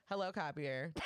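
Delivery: stifled laugh on the greeting; trying not to laugh. Retold or imitated. Coworker tries the copier, laughing. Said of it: "she's like".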